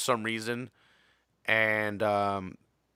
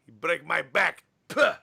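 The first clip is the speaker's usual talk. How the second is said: mock Iron Sheik accent; 8 semitones higher than usual.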